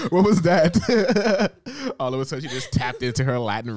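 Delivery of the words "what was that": slow high stunned what was that; drawn-out high surprised gasp of a question; mock surprise. Wife mimicking her own shocked reaction, slow and high. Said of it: "I was like".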